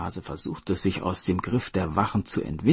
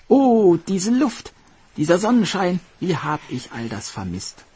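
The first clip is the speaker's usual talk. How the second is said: overjoyed hare, much higher and louder; jubilant; 11 semitones higher, 6 dB louder than usual. Acted. Hare back on shore, jubilant. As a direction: cheer at the sun and air.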